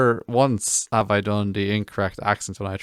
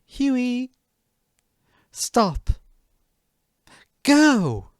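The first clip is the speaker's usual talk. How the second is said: higher mock command barked at a companion; ordering Huey around in a higher put-on voice; 4 dB louder, much slower than usual. Dodging him, player orders Huey in mock high command. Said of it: "I just dodged him and was like".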